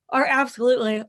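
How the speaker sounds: talking through a yawn; words stretched by a yawn. Real, not acted. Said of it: "So I apologize for yawning".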